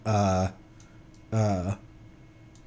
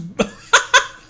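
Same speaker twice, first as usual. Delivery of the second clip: surprised laugh; 9 semitones higher, 5 dB louder than usual. Real, not acted. Laughing at character's line.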